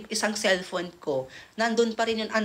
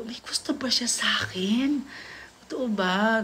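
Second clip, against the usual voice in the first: kilig whisper. Retold or imitated. Kinikilig, nagtatanong sa sarili.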